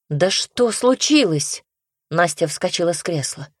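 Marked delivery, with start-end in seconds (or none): 0.1-1.6 alarmed question. Acted. Настя встревоженно спрашивает брата, что случилось. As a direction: pitch jumps up, slow and urgent. Sister demands what happened.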